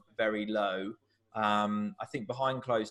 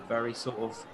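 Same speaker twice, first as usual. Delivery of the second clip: ordinary delivery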